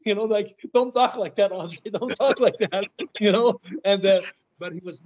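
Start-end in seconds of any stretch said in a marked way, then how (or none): 0.7-2.8 laughing scold. Retold or imitated. Scolding Andre through laughs.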